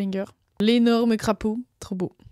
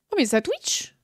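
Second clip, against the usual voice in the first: higher sing-song exclamation; excited; 5 semitones higher than usual. Acted. Streamer repeating the catchphrase playfully. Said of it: "Ah, tout à fait, ça Twitch".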